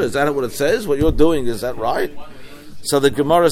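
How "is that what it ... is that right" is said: wondering question. Acted. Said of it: "maybe it's with the wonder question".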